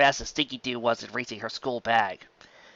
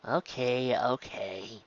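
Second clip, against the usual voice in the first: grumbling; 7 dB quieter, much slower than usual. Acted. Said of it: "she grumbled".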